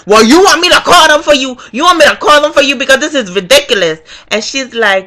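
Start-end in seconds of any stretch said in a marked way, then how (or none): 0.1-4.0 higher, quicker indignant demand; mad. Retold or imitated. Voter confronting the poll worker, mad. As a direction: fire it off, fed up. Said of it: "I'm mad. I'm like".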